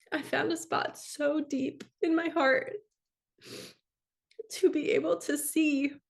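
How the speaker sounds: high, choked-up, teary voice on the edge of crying. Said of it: "I'm gonna cry saying this".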